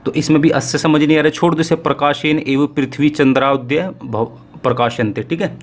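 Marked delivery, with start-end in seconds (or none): 1.8-5.2 slow, deliberate Sanskrit recitation; slow reading aloud. Shown as a demonstration. Teacher slowly reading a Sanskrit passage to students, slow and deliberate. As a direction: read each word slowly so students follow. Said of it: "मैं धीरे धीरे पढ़ूंगा इस गद्यांश को".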